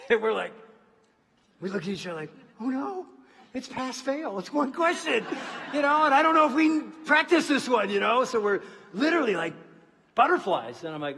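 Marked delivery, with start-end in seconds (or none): 2.6-8.3 higher, louder, laughing through mock panic; nervous laughing panic. Husband to wife before interview, laughing mock panic. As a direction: play up the jitters with a laugh.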